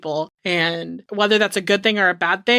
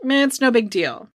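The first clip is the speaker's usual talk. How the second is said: mock indifference; 3 semitones higher than usual. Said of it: "It's almost like".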